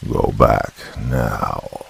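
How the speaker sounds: very slow, low, menacing; demonic. A narrator's reading. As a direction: command her like a demon, dragging each word. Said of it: "demonic tone".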